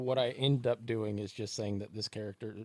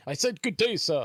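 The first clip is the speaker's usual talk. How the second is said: much higher and louder, a hammed-up indignant send-off; mock huffy dismissal; 9 semitones higher, 9 dB louder than usual. Cohost ending the podcast with a hammed-up indignant good day. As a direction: bark it like a pompous gentleman ending the meeting.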